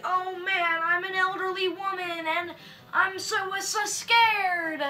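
exaggerated damsel-in-distress wail; mock frightened. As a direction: play helpless fear for laughs. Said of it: "her being all alone, like".

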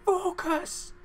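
high, loud strained self-urging yell; a shrill, loud fired-up tennis shout; Andy Murray impression. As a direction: scream at yourself like a tennis player mid-match. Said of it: "It's my Andy Murray impression".

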